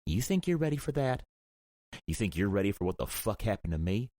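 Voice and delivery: high furious demand. A narrator's reading. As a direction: throw it back at him with fire. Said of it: "threaded with fire".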